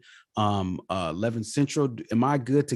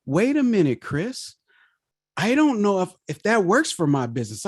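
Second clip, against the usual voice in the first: doubtful life coach; 6 semitones higher than usual. Retold or imitated. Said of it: "and she said".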